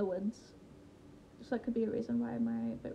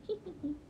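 high, soft little giggle; playful hee hee; 6 semitones higher, 7 dB quieter, faster than usual. Real, not acted. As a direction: titter quietly up high. Playful giggle after plugging channel.

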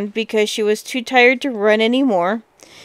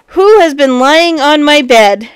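loud big bear cry; great big voice; 3 semitones higher, 7 dB louder than usual. A narrator's reading. Big bear looking at his bed, great big voice. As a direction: boom it out as the huge bear. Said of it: "great big voice".

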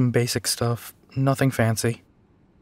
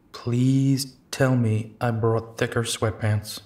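slow, stretched-out pleading; drawn-out plea; slower than usual. Acted. Begging that thicker sweatpants were brought, drawn-out plea. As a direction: drag out the plea, especially the first word.

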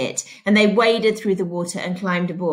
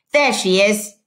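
shouted; 4 dB louder than usual. Acted. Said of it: "Trout shouted".

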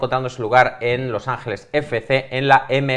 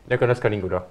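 put-on French accent. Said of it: "yo intentaré poner acento francés".

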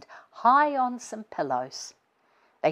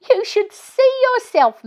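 put-on high, bright, teasing child; little girl voice; 7 dB louder than usual. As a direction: play a giggly young girl. Girl teasing laughing mum.

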